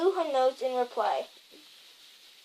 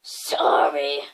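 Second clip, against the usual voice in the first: breathy unvoiced whisper; whispered sorry; 13 semitones lower, 5 dB louder than usual. A narrator's reading. Hagrid apologizes to McGonagall in a tearful whisper. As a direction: whisper it, choked up. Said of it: "sobbed Hagrid".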